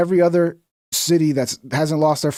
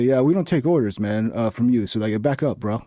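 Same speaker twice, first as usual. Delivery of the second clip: cool, low, unbothered cop; calm cop impression; 4 semitones lower, 3 dB quieter than usual. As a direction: lay back like a chill officer. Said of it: "base Chad Ice Cop".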